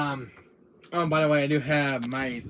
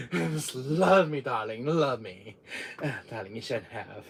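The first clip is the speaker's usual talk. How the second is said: gushing darling; 3 semitones lower than usual. Acted.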